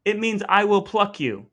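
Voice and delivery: dramatic reveal. Real, not acted. Host revealing the grim meaning to his cohost. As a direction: land the line like a spooky reveal.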